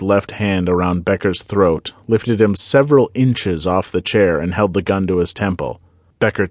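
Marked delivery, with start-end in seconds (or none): none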